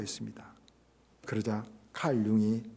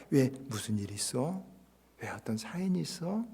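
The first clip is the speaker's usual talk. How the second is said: gentle asking; 6 dB quieter than usual. Retold or imitated. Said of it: "이렇게 다른 사람을 이렇게 받아주는".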